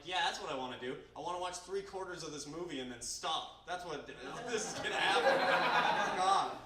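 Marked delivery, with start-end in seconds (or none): 0.0-3.6 sarcastic. Retold or imitated. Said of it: "I'm like".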